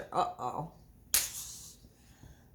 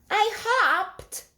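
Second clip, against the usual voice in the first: put-on much higher childlike answer; small child voice; 12 semitones higher, 4 dB louder than usual. Ruby answering Miss Hart, high small child voice. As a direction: answer shyly like a little girl.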